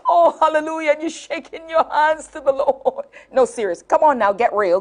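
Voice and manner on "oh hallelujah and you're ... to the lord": excited hallelujah. Retold or imitated. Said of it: "mock swooning over the man".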